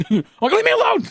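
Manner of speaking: a very high, whiny yell; annoyed shout. Retold or imitated. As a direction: snap back like a grumpy half-asleep kid. Annoyed at mom waking him.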